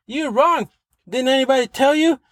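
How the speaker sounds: high-pitched incredulous telling-off; imitated scolding boss. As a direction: call them out like an exasperated superior. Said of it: "of bigger position comes and says".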